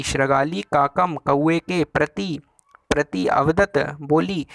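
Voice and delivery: re-reads शृगाली काकम slowly, phrase by phrase; teacher walking students through the line, slow; slow recitation. Shown as a demonstration. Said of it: "देखिए लिखा है".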